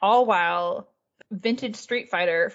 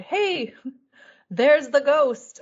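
higher, drawn-out mock yell, slowed at the end; mock shout; 6 semitones higher, 5 dB louder, much slower than usual. Carriage passengers heckling Millwood as a ghost, a mock shout. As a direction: call it out like a heckler on a passing carriage. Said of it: "shouting at Millwood".

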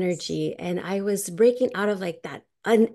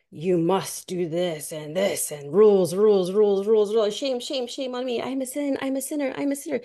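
mocking church rules. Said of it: "this Old Testament here about".

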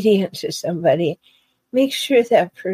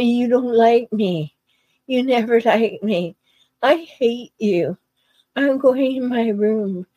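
mock a sulking kid, half-hearted; petulant child; 3 semitones higher than usual. Hijackal imitated sulking at partner like a small child, light mock petulance. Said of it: "'cause they're gonna be petulant".

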